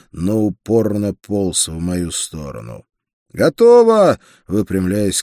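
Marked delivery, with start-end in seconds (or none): 3.3-4.2 high, loud call; shout. A narrator's reading. Рансе signals his partner that the work is done, shouting. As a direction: shout it out to a partner across a fight. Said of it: "крикнул мне Рансе".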